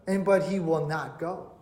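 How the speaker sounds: ordinary talk, nothing marked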